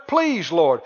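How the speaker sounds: imitated pleading prayer, stretching "please"; lightly acted begging; mock beseeching. Christians beseeching the Lord in prayer, imitated pleading. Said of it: "they're beseeching the Lord in prayer".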